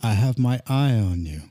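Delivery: measured, playful threat with long pauses; mock menace. Telling Cheshire people they are watched, mock menace.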